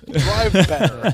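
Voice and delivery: put-on slow, loud old man voice; grumpy old man. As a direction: bark it out slowly like an old coach. Mock coaching in Hurley voice.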